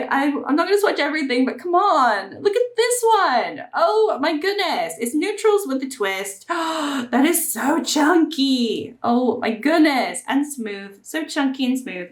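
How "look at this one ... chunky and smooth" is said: delighted gushing. Real, not acted. Swatching palette, gasps in delight.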